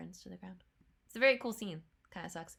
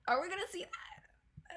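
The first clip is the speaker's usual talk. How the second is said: unvoiced, higher whisper; hushed whisper; 7 semitones higher than usual. Real, not acted. Viewer whispers a hopeful question to the screen. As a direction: whisper it, half hoping.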